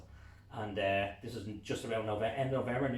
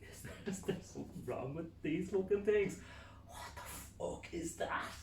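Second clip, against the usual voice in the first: puzzled what-is-that; baffled; 9 semitones higher than usual. Retold or imitated. Man checks binoculars, baffled.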